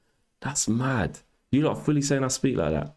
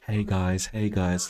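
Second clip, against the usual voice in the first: put-on streamer voice; 2 semitones lower, much slower than usual. Shown as a demonstration. Showing chat the alleged way of speaking, put-on voice. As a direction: drop out of the rant into a put-on voice. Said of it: "I would have to go".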